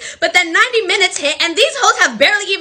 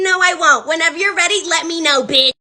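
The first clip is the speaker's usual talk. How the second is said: tight, fed-up. Retold or imitated. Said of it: "I got so tight".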